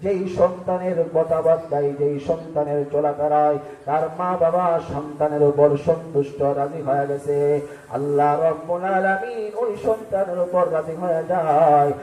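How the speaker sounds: rhythmic sing-song sermon cadence; melodic preaching. Acted. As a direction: preach in a lilting chant, stretching phrase endings.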